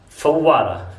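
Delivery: फव्वारा said with a clear f, lip and teeth; careful f demo; soft f sound. Shown as a demonstration. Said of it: "फा की आवाज निकलती है".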